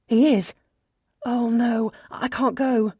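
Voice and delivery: alarmed, high and quick; startled into refusing; panicked surprise. Acted. Sudden panic at news.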